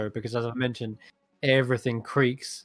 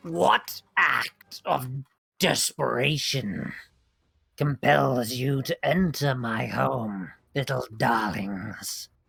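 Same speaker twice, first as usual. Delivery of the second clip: rough croak from the throat. Retelling what a game character says when the Lawnlings snitch, in a low croaking voice. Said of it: "she says in a low, uh, croaking voice".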